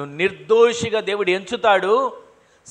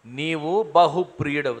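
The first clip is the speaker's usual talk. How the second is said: lower, softer and gentle; a preacher lightly voicing the angel's tender words; 5 semitones lower, 3 dB quieter than usual. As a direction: say it softly, as a loving reassurance. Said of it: "దేవుని దూత దిగి వచ్చి".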